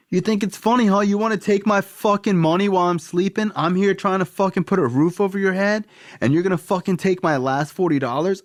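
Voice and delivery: high, mock-furious dad rant; dad screaming. Dad yelling at his son for taking his last forty dollars, furious. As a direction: rage at the son who stole his money. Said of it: "he'd be screaming".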